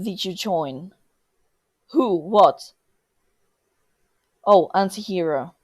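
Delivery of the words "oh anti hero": ordinary delivery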